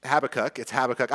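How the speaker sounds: "Habakkuk" stressed on the first syllable, HAB-uh-kuk; technical pronunciation. Shown as a demonstration. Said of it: "technically it is".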